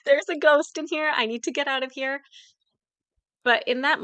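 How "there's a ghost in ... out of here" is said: raised, louder mock panic; mock ghost alarm. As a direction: act out a playful ghost scare. Acting out usual haunted-hotel reaction.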